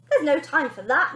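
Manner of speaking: high, loud snap; nanny cutting mother off; snapped. Acted. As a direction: snap at her. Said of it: "snapped Wonder Nanny".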